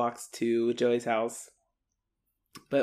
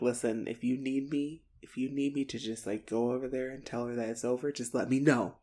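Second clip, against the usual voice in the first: softer, confidential supportive tone; 7 dB quieter than usual. Retold or imitated. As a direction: offer backup quietly, as a buddy. Retold Joey reassuring Snake.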